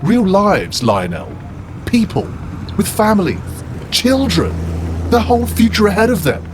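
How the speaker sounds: Horace building to a high, heated outburst; impassioned rant. Acted.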